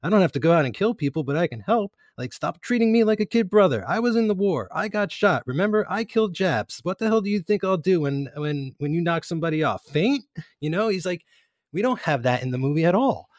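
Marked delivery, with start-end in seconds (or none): 0.0-10.2 imitating a yell, higher and heated; mock rant at his older brother; Michael blowing up at Sonny, raised pitch; retold angry outburst. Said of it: "he yells at Sonny".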